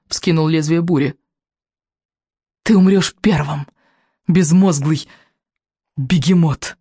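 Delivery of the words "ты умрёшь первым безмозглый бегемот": gloating smile. A narrator's reading. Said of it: "улыбнулся Вероломный".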